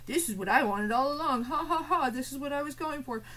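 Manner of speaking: hammed-up fake triumphant laugh; mock a troll pretending it was the plan, ha ha.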